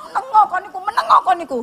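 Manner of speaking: acted high-voiced telling-off; hushing crowd. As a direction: imitate onlookers shushing a shouter, high-pitched. Crowd hushes the shouting man.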